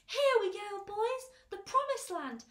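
high, loud triumphant call; excited shouts. A narrator's reading. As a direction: shout it out to the gang, elated. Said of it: "mounting excitement and shouts of".

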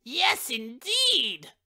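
slow, lightly voiced prim agreement; agreeing matchbox. A narrator's reading. Matchbox agreeing with the stove lifter, slow and prim. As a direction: nod along knowingly. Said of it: "replied the matchbox".

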